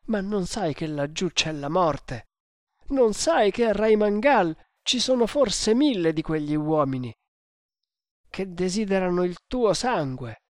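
agitated, emphatic storybook servant; alarmed servant. Acted. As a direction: beg your master not to go. Servant warns master of death.

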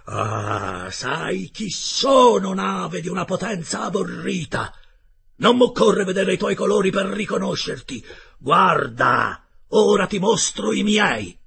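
high, very loud, slow defiant cry; thundering shout. A narrator's reading. Captain defying the attacking warship, thundering shout. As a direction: thunder it out, stretching the words. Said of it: "urlò con voce tonante".

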